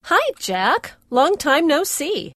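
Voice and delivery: put-on easy, offhand hello to an old friend; very casual greeting. Marion greets Jack after years, very casual. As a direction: toss off "Long time no see" lazily and slowly. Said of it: "It's very casual".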